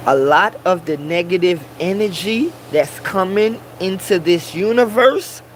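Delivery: measured delivery so people get it; said again slowly. Shown as a demonstration. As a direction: spell the point out slowly, phrase by phrase. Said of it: "I'm gonna say it again slowly".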